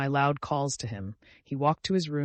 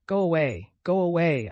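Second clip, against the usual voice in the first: raised, repeated dismissal; desperate command; 4 semitones higher, 5 dB louder than usual. A narrator's reading. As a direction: order him out in desperation. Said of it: "I commanded in desperation".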